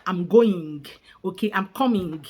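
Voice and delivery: put-on Rwandan accent with hard g on "-ing". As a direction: imitate a Rwandan, sounding each final g. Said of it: "like the Rwandans will always say".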